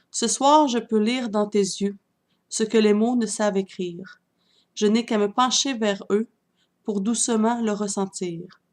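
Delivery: earnest, measured love-poem recital; poem reading. Acted. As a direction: recite verse by verse, letting each line fall. Reads second poem aloud.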